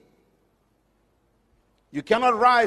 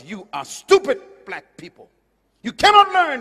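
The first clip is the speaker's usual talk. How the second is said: quoting the angry teacher, cannot learn rising to a high loud yell; angry retold teacher shout; 5 semitones higher, 7 dB louder than usual. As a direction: hurl the insult. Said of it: "he was angry".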